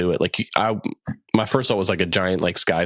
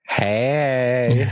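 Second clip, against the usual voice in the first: high cat voice; 5 semitones higher than usual. Pretend. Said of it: "Simba being like".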